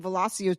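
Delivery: Velocio said as vuh-LAH-see-oh; "LAH-see-oh" ending on Velocio; other person's pronunciation. Retold or imitated. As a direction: say Velocio with an "s" sound in place of "ch". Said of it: "somebody was saying Velocio to me".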